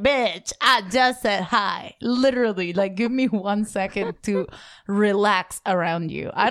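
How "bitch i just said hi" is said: annoyed. Retold or imitated. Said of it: "And you're like".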